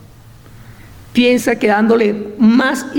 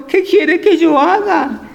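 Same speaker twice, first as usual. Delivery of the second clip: higher, slow, timid pleading; fearful; 5 semitones higher than usual. Acted. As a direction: ask as if trembling before God. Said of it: "temblando y temeroso".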